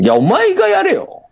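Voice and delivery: high-pitched comic retort; mock scolding. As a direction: jokingly tell off your partner in a high voice. Teasing retort, partner laughs. (ふざけて高い声でツッコむ)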